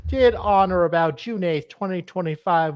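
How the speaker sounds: put-on legal text in a Hispanic accent. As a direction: Hispanic accent drifting Italian. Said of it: "I'm trying to do a Hispanic accent".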